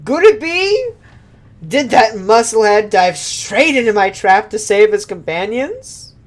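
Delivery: high, loud gleeful taunting; gloating octopus villain. Acted. Octopus villain gloating at the heroes, high and loud. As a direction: cackle it at the kids.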